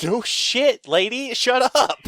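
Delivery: high, loud mock retort laughing through it; hammed-up annoyance with a laugh. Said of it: "And I'm like".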